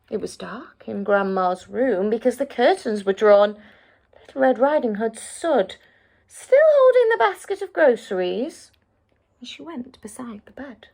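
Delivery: put-on lively read-aloud voice for children; storybook narration. A narrator's reading. Narrator reading a fairy tale to children, lively storytelling. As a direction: tell the tale with wide swings for young listeners.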